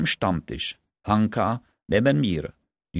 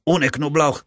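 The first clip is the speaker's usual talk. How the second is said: disgusted; 6 semitones higher than usual. Acted. Disgusted friend repeats himself.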